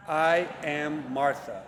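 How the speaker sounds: slow, emphatic "I am Martha" with each word held; emphatically. Shown as a demonstration. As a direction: declare "I am Martha" slowly and with weight.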